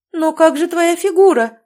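high, loud, alarmed outcry; alarmed cry. Acted. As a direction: cry it out in dismay. Mother cries out in alarm.

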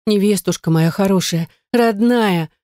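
the sister clasps Yana and wails fondly; a touch of wailing. Acted. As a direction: wail out the endearment. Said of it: "заголосила она".

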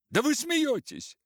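loud, high enraged disbelief; furious outburst. Acted. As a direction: explode in rage. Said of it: "бешенство овладело мною".

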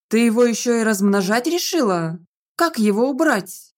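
ordinary delivery, nothing marked

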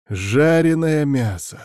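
slow, savoring exclamation; drawn-out delighted exclaim. Acted. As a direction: relish the words, drawn out. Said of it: "восклицаю я".

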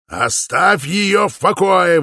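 slow, high, loud desperate cry; desperate shout. A narrator's reading. Father shouts desperately at the suitor to leave her. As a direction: stretch it out in loud despair. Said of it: "в отчаянии кричал Упа".

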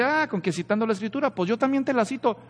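sly devil. Retold or imitated. The devil mocking Jesus for quoting scripture, quick and sly. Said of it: "Entonces el diablo dice".

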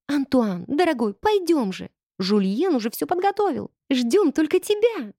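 put-on high, coaxing girly voice; breathy cutesy giggly.

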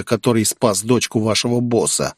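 plain reading voice

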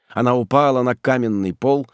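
usual speaking voice

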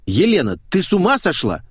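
loud, indignant outburst; angry exclamation. Acted. Man in the bath snapping at the maid, angry. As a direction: snap at her from behind the curtain. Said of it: "гневно воскликнул".

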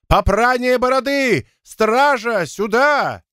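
high outraged cry; high, drawn-out indignant exclamations; indignant wail. A narrator's reading. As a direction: call for help high and scandalized. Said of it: "от переполнявшего его негодования".

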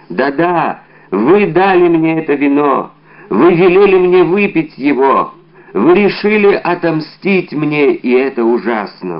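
громче и выше, обличая отравителя; бросить обвинение в лицо из последних сил; отчаянное обвинение. Acted. Умирающий повторяет обвинение. (умирающий солдат в отчаянии обвиняет Д'Артаньяна)

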